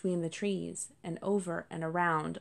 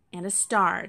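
louder, firm little demand; a kit insisting, mildly firm; 5 dB louder than usual. Acted. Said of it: "Cherry said firmly".

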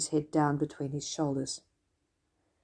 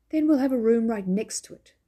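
triumphant; 6 semitones higher, 5 dB louder than usual. Acted. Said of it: "declared the man triumphantly".

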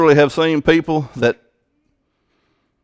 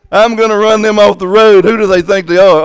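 louder, higher, hammed-up fury; mock road rage; 5 semitones higher, 6 dB louder than usual. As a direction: bellow like a furious driver.

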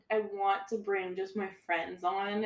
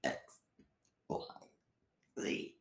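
burping the words; 11 dB quieter than usual. Pretend. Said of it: "burp the alphabet".

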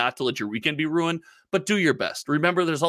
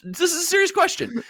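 laughing; 14 semitones higher than usual. Real, not acted. Laughing insistence.

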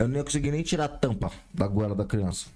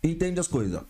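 mock scolding; 6 semitones higher than usual. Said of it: "De olhar e falar".

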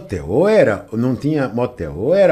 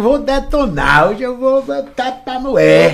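excited boast; 9 semitones higher, 4 dB louder, much slower than usual. Retold or imitated. Retold boast to himself.

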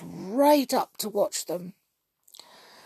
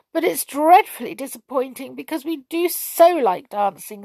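higher-pitched, mildly tearful plaint; a touch of tears in the disappointment; nearly crying; 6 semitones higher, 3 dB louder than usual. A narrator's reading. Trickle says they so like dancing, understated near-crying. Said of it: "nearly crying".

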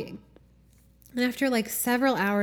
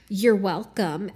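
pointed you're welcome; slower than usual. Retold or imitated. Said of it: "she would be like".

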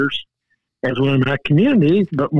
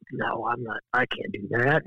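own reply; 4 semitones lower, 8 dB quieter than usual. Retold or imitated. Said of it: "And I go".

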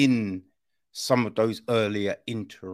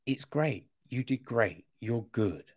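reassuring; 2 semitones lower, 5 dB quieter than usual. Retold or imitated. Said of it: "giving him positive affirmations".

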